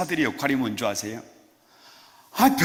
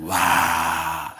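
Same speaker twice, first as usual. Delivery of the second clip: wow; 10 semitones lower than usual. Shown as a demonstration. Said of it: "그냥 와만 하면 돼요".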